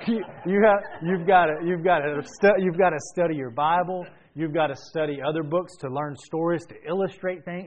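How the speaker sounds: preacher laughing while imitating his classmate's accent; mock Hispanic accent. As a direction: put the accent back on, chuckling. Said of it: "I'm going to a Hispanic accent".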